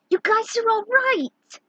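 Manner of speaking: put-on high, slow, relieved kid; high child voice.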